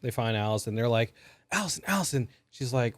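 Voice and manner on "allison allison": high, soft imitation of calling a name; half-hearted searching call; mock calling out. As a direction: pretend to call for someone, softly. Friends calling out, retold.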